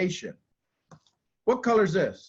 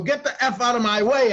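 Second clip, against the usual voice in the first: yelled higher and louder; mock panicked shout; 7 semitones higher, 6 dB louder than usual. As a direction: bark it like a panicked brain. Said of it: "It's gonna go".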